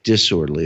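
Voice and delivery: disorderly stressed deliberately; emphasis on disorderly. Shown as a demonstration. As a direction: lean on the word disorderly. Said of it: "I emphasize the word".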